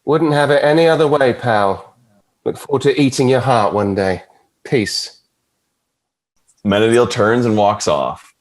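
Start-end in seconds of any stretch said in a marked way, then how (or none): 0.1-5.2 lightly voiced cocky devil, a touch mocking; smug Lucifer. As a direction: tease his brother with easy menace.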